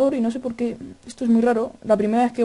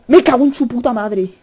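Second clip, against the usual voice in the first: louder outburst of a real scare; startled cursing shout; 7 dB louder than usual. Real, not acted. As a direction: swear out loud in shock. Jump scare in the game.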